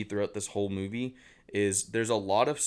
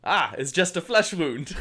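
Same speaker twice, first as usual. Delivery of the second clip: imitated English accent; 3 semitones higher, 4 dB louder than usual. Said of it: "And he goes".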